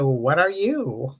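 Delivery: slow, measured question thrown back; retort mimicking questioner. Answering the nosy lady back, retort. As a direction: turn the question back on them, slowly. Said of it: "exactly the way she said to me".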